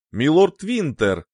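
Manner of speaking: pilot calling over the intercom; lightly voiced intercom call; over a pilot headset. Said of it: "раздался голос пилота по внутренней связи".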